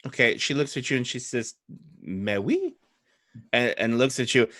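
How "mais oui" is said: put-on short French-accented assent. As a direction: agree in a French accent with a rising end. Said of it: "French in this case would be Old Adari".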